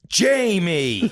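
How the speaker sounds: high, drawn-out scolding cry; exasperated mother. Retold or imitated. Mom hearing her son's messages read out, exasperated. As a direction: imitate a mom wailing in outrage. Mother's outburst at son, acted.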